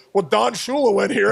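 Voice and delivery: quoting the coach through laughter; can't keep a straight face; a retold quote broken by laughter; laughing. Coach quoted, speaker cracking up.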